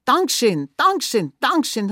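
high, loud, quick bursts of gratitude; excited thanks. Acted. Boy thanks the farmer for the secret, excited. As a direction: fire off each thanks excitedly.

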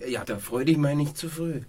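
loud villainous gloat; wicked. Acted. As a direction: gloat like a schemer. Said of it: "ihr bösen, bösen Menschen".

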